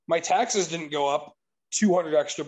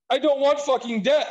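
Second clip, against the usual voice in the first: raised, higher heated outburst; retold outburst; 7 semitones higher than usual. Venting at the lender, a retold heated outburst. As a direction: blurt it out, pitch jumping.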